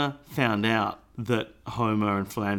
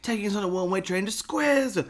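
beatnik dad voice; 8 semitones higher than usual. Retold or imitated. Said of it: "what does he say?".

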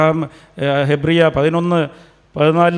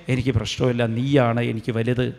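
calm trusting prayer; 4 semitones lower, 4 dB quieter than usual. Shown as a demonstration. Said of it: "കരയാതെ പ്രാർത്ഥിക്കണം".

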